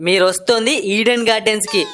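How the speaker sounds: ordinary delivery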